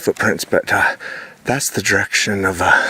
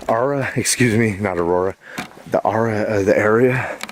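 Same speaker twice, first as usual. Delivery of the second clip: heavy breathing. Real, not acted. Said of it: "Sorry, I'm breathing hard".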